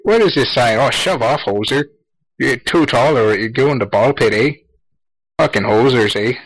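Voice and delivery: hammed-up Canadian "eh" accent; lightly put-on Canadian accent; mock Canadian. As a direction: play a cartoon Canadian hoser. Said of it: "Pretty sure that was, that was Irish".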